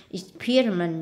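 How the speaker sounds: "Experiment" stressed on the second syllable. Shown as a demonstration. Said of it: "nhấn âm hai".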